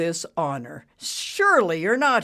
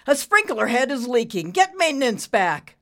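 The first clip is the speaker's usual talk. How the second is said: loud, raised-pitch orders; shout; 8 semitones higher, 8 dB louder than usual. A narrator's reading. Boss to secretary about a leak, shouted. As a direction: bark the order out. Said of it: "he shouted".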